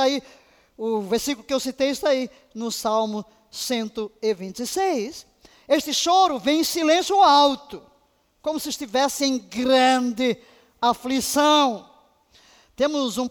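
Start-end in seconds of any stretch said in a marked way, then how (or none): none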